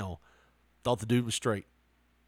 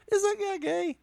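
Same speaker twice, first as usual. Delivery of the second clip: imitating the guy.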